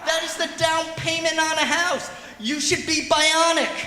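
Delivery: high, loud mock yell; yelling at dog. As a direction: shout at the dog in disbelief. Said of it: "I'm yelling at my dog".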